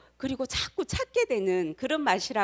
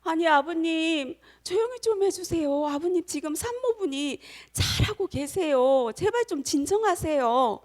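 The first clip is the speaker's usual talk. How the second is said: high-pitched, placating nurse voice; pleading nurse; 7 semitones higher than usual. Acted. Nurse asking a shouting father to calm down, pleading. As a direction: try to calm an agitated man, pitched up.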